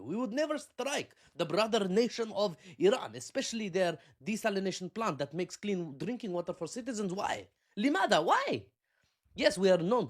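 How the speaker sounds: hurt, wounded ally in a put-on accent; mock Arab accent. Emirati official denying the strike, in a pleading mock Arab accent. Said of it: "I don't know if that's an Arab accent".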